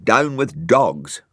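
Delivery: innocent slow repeat. Acted. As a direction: say it all innocent. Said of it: "said Brian innocently".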